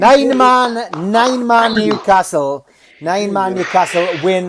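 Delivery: loud, high, triumphant call; excited announcement. Real, not acted. Announcing the win with glee.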